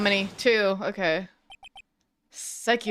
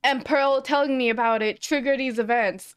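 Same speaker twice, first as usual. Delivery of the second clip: annoyed; 5 semitones higher than usual. Real, not acted. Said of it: "I'm a little annoyed".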